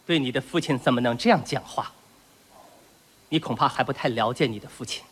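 measured, low-voiced paternal warning with leading pauses; pompous stern father. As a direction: lecture a toddler like a commanding officer. Pompous stern father lecturing baby son.

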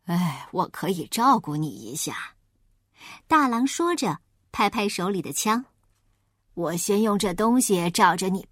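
a wolf hiding his plan; sly wolf. Acted.

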